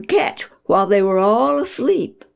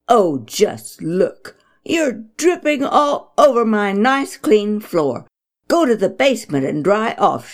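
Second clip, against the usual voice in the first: mild scolding mother; 2 semitones higher than usual. Acted. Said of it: "she ordered".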